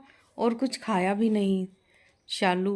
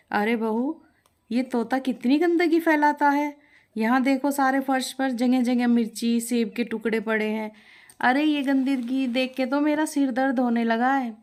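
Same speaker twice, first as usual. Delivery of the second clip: higher, louder nagging complaint; irritated mother-in-law; 5 semitones higher, 4 dB louder than usual. Acted. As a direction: scold the bride about the mess. Mother-in-law complains about mess. (चिढ़ी हुई सास की शिकायत)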